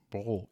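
Bro said short, English style; the name said as Bro; Bro with plain o. Shown as a demonstration. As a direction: settle on Bro. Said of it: "Ich nenne ihn Bro".

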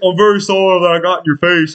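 put-on apologetic voice; acted-out contrite drunk; mock drunken apology. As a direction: imitate a tipsy man saying sorry. Imitates drunk roommate's meek apology.

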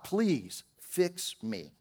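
a soft, drawn-out plea for help; slow quiet plea. Retold or imitated. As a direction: beg quietly and slowly, like a desperate prayer. Crying out from addiction.

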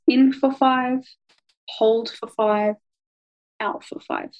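slow, even breathing count. Shown as a demonstration. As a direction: pace it like a breathing guide. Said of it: "You're breathing in for five seconds".

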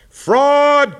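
high, loud outraged shout; angry cry. A narrator's reading. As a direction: bellow it like a furious crowd. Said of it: "cried the maddened thousands".

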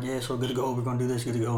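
low, soft, easygoing delivery; soft-spoken, chill. Retold or imitated. Senior instructor giving the nightly rundown, soft-spoken and chill. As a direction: imitate a laid-back senior instructor. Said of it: "the soft-spoken, chill dude type shit".

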